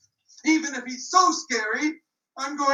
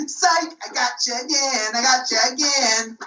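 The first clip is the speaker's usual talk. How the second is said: gloating taunt. Acted. Boy gloats again.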